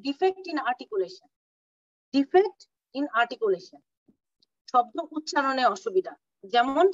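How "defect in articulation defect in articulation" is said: defect in articulation spelled out slowly; slow, deliberate dictation for note-taking. Shown as a demonstration. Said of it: "teacher dictating definition".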